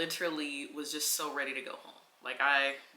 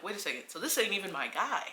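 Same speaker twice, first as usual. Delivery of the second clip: indignant; 5 semitones higher, 6 dB louder than usual. Retold or imitated. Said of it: "So I'm like".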